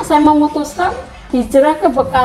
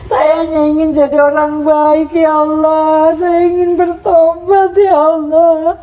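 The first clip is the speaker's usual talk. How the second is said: crying prayer; 3 semitones higher than usual. Retold or imitated. Mother reliving her prayer to God, slow and crying. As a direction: beg God for help through tears. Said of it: "Saya sering nangis".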